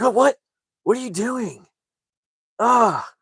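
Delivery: high-pitched, put-on outburst; mock mom squawk. Narrator mimics mom offered water by her son, high squawk. Acts out the destroyed mom's reaction.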